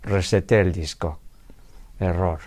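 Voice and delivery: lightly robotic, slow repeated error message; mock computer voice. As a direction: imitate an old computer alert, mildly. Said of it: "salía antes mucho en los ordenadores". (voz de ordenador imitada, ligera y lenta)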